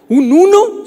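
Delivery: put-on high, loud astonished kid voice; surprised. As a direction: gasp it out like a shocked boy. Son reacts to father's grade. (sorpresa aguda y fuerte de niño asombrado)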